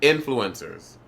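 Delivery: "Influencers" as IN-fluencers, falling away; stress on IN. Shown as a demonstration. Proving the accent is on in, stress demo. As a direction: demonstrate "Influencers" with first-syllable stress. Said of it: "my accent is on in".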